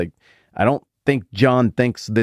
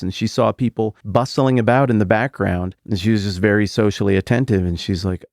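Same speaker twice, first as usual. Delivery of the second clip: ordinary delivery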